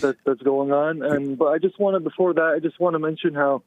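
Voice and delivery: out of breath; winded, short on air; gasping for air. Real, not acted. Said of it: "I'm out of breath".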